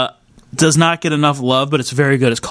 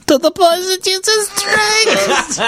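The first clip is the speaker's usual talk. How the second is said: very high, slow, laughing quote voice; movie character quote; slower than usual. Retold or imitated. Quoting Temple of Doom, very high and slow. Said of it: "What's that? Antidote".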